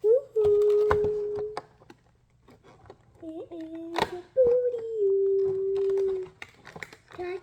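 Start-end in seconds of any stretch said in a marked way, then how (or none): 0.0-1.6 loud happy whoop; excited cheer. Real, not acted. Excited cheer opening toy. 3.2-6.3 excited. Real, not acted. Excited over surprise toy.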